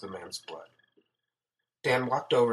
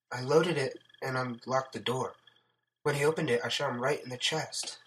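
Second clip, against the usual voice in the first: higher-pitched voice for a female character; shaken woman recounting events; 3 semitones higher than usual. Acted. Sarah finishes her account.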